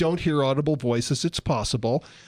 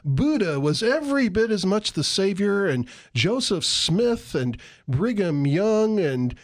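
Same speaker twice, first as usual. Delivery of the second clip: false God voice; 3 semitones higher than usual. Pretend. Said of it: "If God speaks to you, supposedly, and says".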